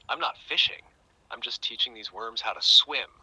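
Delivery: cheeky lad. Acted. Lad's cheeky reply in joke.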